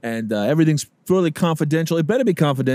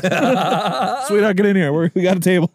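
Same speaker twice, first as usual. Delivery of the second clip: calling out; 5 semitones higher, 3 dB louder than usual. Retold or imitated. Mob guy calling wife.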